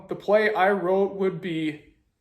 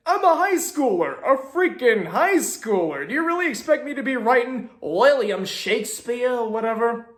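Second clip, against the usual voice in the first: put-on a loose, overdone New Jersey accent, a bit higher; bad New Jersey accent; 4 semitones higher than usual. High schooler venting at his teacher, in a bad New Jersey accent. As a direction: rant it like a half-botched New Jersey tough guy. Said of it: "really bad New Jersey accent".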